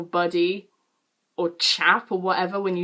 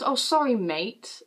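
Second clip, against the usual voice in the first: exaggerated apology; 3 semitones higher, slower than usual. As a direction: overdo the apology, lingering on mate. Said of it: "Like, not like that".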